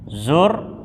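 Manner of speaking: "zurtuhu" sounded out carefully; clear zurtuhu. Shown as a demonstration. Teacher sounding out "zurtuhu" for the class. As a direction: say "zurtuhu" slowly and distinctly. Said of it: "Yang satu".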